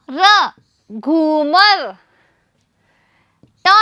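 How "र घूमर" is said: घूमर drawn out very slowly; slow model word. Shown as a demonstration. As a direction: stretch घूमर out. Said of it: "मैं आपको पढ़ के दिखा रही हूँ". (घूमर बहुत धीरे खींचकर)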